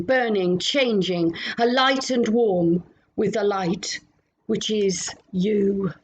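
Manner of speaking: measured, reverent prayer voice. Acted. Leads prayer after plain chat.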